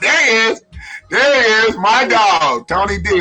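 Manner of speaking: loud, high hype greeting; hyped-up welcome for a friend joining late; excited greeting. Real, not acted. Greeting guest loudly.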